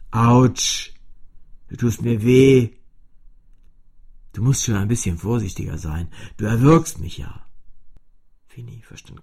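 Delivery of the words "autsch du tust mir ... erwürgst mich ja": laut, mit fremder Stimme protestierend; klagendes Cello. A narrator's reading. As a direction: beschwer dich, dass es weh tut. Cello klagt über Schmerz. (laute, klagende Cellostimme)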